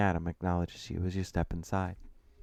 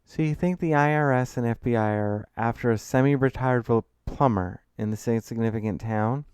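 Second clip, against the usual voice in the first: mildly raised, incredulous questioning; sceptical challenge; 4 semitones higher, 4 dB louder than usual. Acted. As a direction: question it with a touch of sarcasm. Sceptical friend mocks the scam story.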